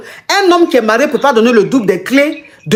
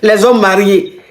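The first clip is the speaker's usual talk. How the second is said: laughing; 4 semitones lower, slower than usual. Real, not acted. Host laughs at caller's story.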